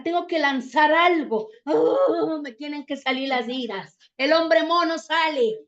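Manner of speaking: imitating a hothead's mild mock yell; mock angry outburst. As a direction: play someone bursting with rage, half-hammed. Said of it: "Tú has escuchado que la gente dice". (grito fingido de alguien colérico)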